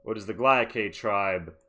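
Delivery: wolfish grin. Acted. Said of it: "makes a wolfish grin and says".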